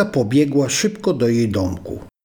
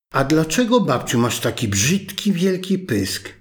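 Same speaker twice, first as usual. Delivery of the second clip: put-on wondering little girl; 3 semitones higher than usual. Girl at the bedside asking grandma, in a high wondering child voice. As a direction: let the surprise open the question. Girl questioning disguised wolf.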